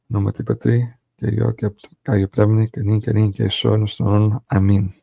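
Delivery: steady, even liturgical recital; Lord's Prayer recited in Greek; Greek prayer recitation. Real, not acted. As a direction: pray it aloud with measured devotion. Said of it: "So I'm gonna say it in Greek".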